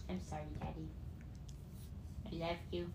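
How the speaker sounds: put-on small, soft childlike voice; little kid voice. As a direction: talk like her younger self. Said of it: "the old me voice".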